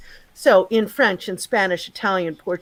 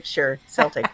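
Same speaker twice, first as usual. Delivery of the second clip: polite smile; 6 semitones lower, 4 dB quieter than usual. Retold or imitated. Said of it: "smile politely and say".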